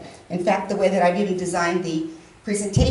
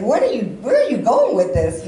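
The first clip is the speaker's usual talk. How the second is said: exasperated questioning; 5 dB louder than usual. Retold or imitated. Confronting cousin by phone.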